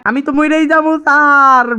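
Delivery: high panicked wail. Acted. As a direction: wail high in mock terror. Devil panics shrilly.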